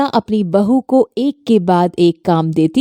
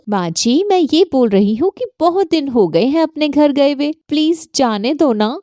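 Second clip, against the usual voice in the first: higher, pleading daughter-in-law; pleading young bahu; 4 semitones higher than usual. Acted. Bahu pleading with her saas about the halwa, higher. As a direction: beg off the task politely.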